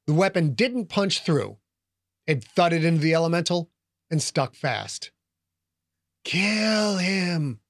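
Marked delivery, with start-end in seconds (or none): 6.2-7.6 whispery voice. Acted. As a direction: breathe the words like a hidden menace. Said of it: "the whispery voice said".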